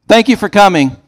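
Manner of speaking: high, bright sarcastic thank-you; mock polite thanks. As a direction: chirp it like a fake greeter. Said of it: "it's like".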